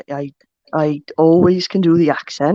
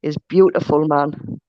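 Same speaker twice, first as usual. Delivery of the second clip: put-on Geordie accent; 3 semitones lower than usual. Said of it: "do us a Newcastle one, a Geordie accent".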